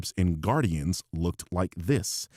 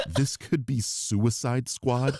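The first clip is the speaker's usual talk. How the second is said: slow, higher-pitched disbelieving question; incredulous echo; 6 semitones higher, slower than usual. Retold or imitated. Commentator echoing a critic's claim, incredulous. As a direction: repeat the claim as a drawn-out, baffled question.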